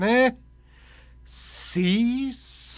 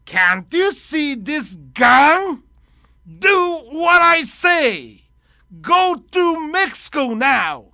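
slow, louder menacing hijacker; 5 semitones higher, 6 dB louder, much slower than usual. Acted. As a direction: bark the demands like a movie hijacker. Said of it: "ハイジャッカー。".

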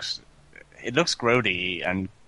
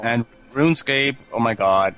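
put-on Valley girl voice; 4 dB louder than usual. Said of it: "I sound like a Valley girl again".

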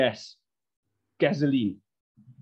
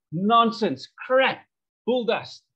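scoffing retort; 6 semitones higher, 4 dB louder, much slower than usual. Retold or imitated. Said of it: "I said".

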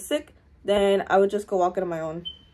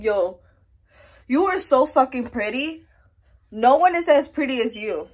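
self-praise; 2 semitones higher, 5 dB louder than usual. Retold or imitated. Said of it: "I look at myself and I be like".

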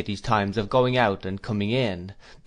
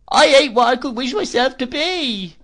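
high, loud plaintive widow's whine; Missus Gummidge; 13 semitones higher, 7 dB louder than usual. Acted. Mrs Gummidge pities herself at dinner, high whine. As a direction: whimper it like a self-pitying old widow.

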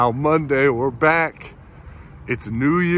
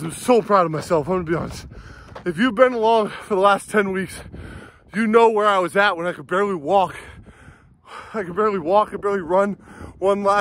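out of breath after a run; panting between words; shallow breathing; 3 semitones higher than usual. Real, not acted. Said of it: "Sorry I'm out of breath".

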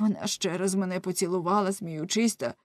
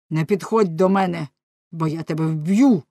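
angry threat; 5 dB louder than usual. Acted. Jealous husband threatens wife.

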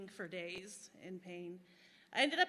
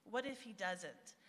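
healthy, trusting; 5 dB quieter, slower than usual. Shown as a demonstration. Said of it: "but in a healthy way".

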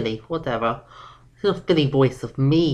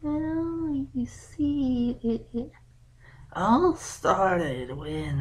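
put-on hesitant girl's voice, picking each word carefully; sheepish young filly; 3 semitones lower, 6 dB quieter than usual. Daughter nervously explaining to her dad, a sheepish young filly. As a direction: stall and stumble like a kid caught out.

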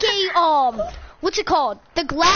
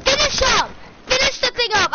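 angry yelling; 5 semitones higher than usual. Real, not acted. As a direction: bark at them to hurry. Yelling at teammates to finish.

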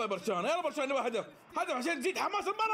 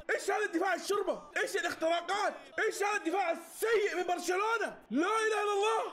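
excited mocking shout; 6 semitones higher, faster than usual. Real, not acted. Mocking Barcelona defense.

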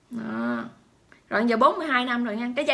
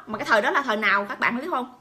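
usual speaking voice

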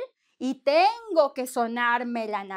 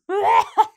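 laughing at own joke; 9 semitones higher, 11 dB louder than usual. Real, not acted. Nose crying joke.

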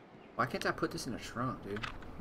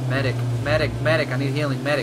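loud call for a medic; man down shout; 2 semitones higher, 10 dB louder, faster than usual. Real, not acted. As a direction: shout for help while hurt. Wounded, calling for medic.

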